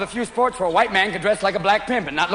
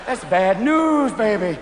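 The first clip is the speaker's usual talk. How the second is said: slow drawled warning; much slower than usual. Retold or imitated. Drawn-out comic warning.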